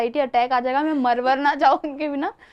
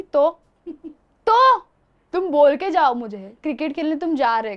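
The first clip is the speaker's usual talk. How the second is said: retold scolding. Wife retelling how she told off husband, mock scolding. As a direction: scold him, then settle.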